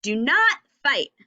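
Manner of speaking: urgent command, leaning hard on NOT; teacher modelling an urgent statement; urgent exclamation. Shown as a demonstration. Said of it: "That's a very urgent statement that I'm saying".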